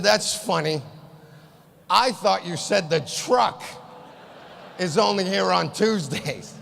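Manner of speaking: slow, deadpan sarcasm; sarcastic. Retold or imitated. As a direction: repeat it back slowly, mocking.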